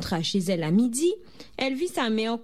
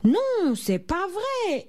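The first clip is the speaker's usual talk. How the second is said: high, drawn-out whine of dismay; child protesting at breakfast; sullen protest; 10 semitones higher, much slower than usual. A narrator's reading. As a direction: wail it high, stretching the words. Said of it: "l'air plus maussade que jamais".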